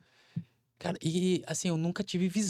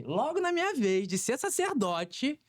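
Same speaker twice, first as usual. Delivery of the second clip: high, slow, whiny "Logo na minha vez"; lamenting complaint; 9 semitones higher, slower than usual. Retold or imitated. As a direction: drag it out like a grumbling lament. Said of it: "Ezequiel falou essa frase aí". (queixa arrastada e aguda, bem lenta)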